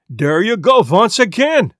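an angry Swedish outburst; loud indignant Swedish sailor; exploding. Acted. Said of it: "the Swedish sailor exploded".

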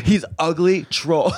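laughing mock put-down; laughing insult. Real, not acted. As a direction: giggle the insult out.

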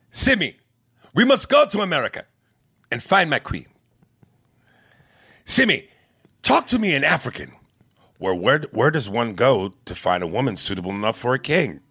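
regal African accent impression. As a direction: speak like a prince in an African accent. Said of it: "Arsenio's African accent".

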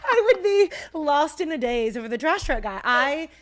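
loud, laughing through the story. Real, not acted. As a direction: crack up while telling it. Laughing while telling story.

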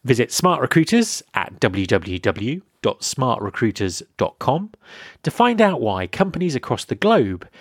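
polished, evenly phrased podcast ad read; sponsor ad read. Acted. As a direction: read the sponsor copy clearly and deliberately. Host reads a sponsor message.

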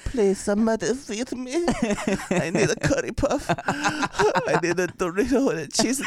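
high, slow pleading; high slow baby begging; starving baby voice. Pretend. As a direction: beg for snacks like a famished baby.

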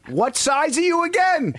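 high, loud teasing ask; mock innocent question. Teasing Phil in the store, high mock-innocent ask. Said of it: "and I just said".

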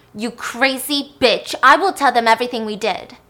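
angry threat. Retold or imitated. Stan threatening Lilith.

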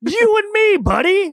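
high, loud excited yell; excited shout. Real, not acted. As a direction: cheer him on like a buddy. Cheering co-host, excited outburst.

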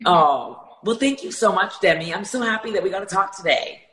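hoarse voice from a sore throat; raspy, strained throat. Real, not acted. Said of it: "sorry about such a sore throat today".

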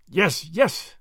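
impatient, dismissive assent. A narrator's reading. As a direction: brush the worry off impatiently. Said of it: "said the other impatiently".

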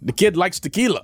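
laughing mock Irish; badly faked Irish grandparent; bad Irish accent. Irish grandparent remarking on the tequila drinker, poor Irish accent. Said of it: "That's your Irish accent?".

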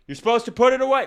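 loud, high mock scolding; indignant shit talk. Dad and child grumbling while walking away, mock indignant shout.

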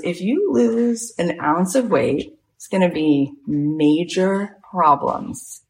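slow, weighty mock threat; imitated boss laying down the law, slowly; stern warning. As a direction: draw out each word to warn. Retells director's threat about weight.

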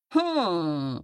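mild trumpeting hum; long falling hum as an elephant. A narrator's reading. Elephant considers the boy's plea, mild trumpeting. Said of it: "trumpeted the elephant".

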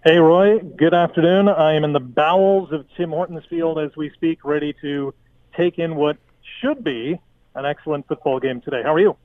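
muffled behind a face mask; talking through a mask. Real, not acted. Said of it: "it sounds like you're talking through a mask".

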